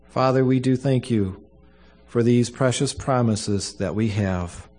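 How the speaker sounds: solemn, measured funeral prayer. Acted. Pastor prays at a funeral.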